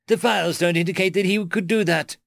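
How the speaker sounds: high, flustered protest; rattled high-pitched voice; alarmed squeak. A narrator's reading. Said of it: "squeaked Bugrat".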